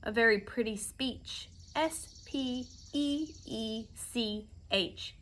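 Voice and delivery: mild sneer, letters spelt out slowly; sneer, then spell it out letter by letter. A narrator's reading. Bee mocking the humbug's speech, sneering. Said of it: "sneered the bee".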